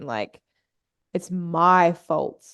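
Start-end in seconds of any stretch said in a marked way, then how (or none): 1.1-2.4 slow realization. Retold or imitated. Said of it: "huge realization".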